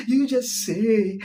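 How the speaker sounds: slow, drawn-out officiant cue; mock pastor prompt. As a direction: drawl it like a pastor leading vows.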